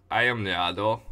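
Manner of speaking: put-on vaguely Russian accent; lightly put-on Russian character voice; a hint of a Russian accent; Yado. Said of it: "I vaguely make it Russian".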